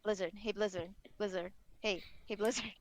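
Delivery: put-on annoying kid. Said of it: "do the annoying kid thing".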